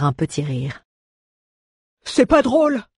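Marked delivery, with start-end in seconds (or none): 2.0-2.8 high, loud offended protest; offended dwarf. Acted. Offended dwarf snaps at the laughing bard. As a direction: snap back, stung. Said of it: "s'offusqua le nain".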